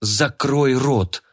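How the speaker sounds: very slow, sharp command to shut up; snapping at her. Acted. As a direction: bark her into silence. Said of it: "прикрикнула на бандитку Анастасия".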